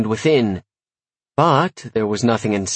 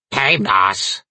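raspy Kermit voice; 4 semitones lower than usual. Acted. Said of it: "like Kermit the Frog with a five-pack".

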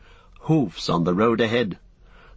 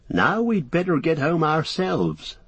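put-on young hobbit voice; 7 semitones higher than usual. Merry voiced in story.

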